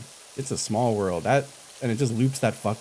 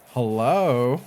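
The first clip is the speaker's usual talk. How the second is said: bitchy voice; 2 semitones higher, 3 dB louder than usual. Retold or imitated. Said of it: "in, like, a bitchy voice".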